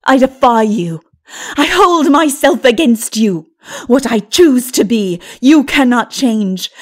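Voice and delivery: loud, fast, scornful defiance; defiant sorceress. Acted. Lilith to Mara, loudly refusing to change. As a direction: hold yourself hard against her.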